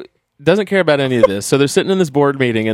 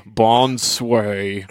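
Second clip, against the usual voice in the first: mock French; 2 semitones lower than usual. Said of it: "He's like".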